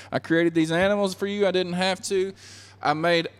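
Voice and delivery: acted earnest remonstrance; impassioned appeal. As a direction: pile up each point with rising fervour. Voices God pleading with Adam.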